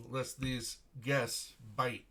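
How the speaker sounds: dry warning. Acted. Captain jokes with menace.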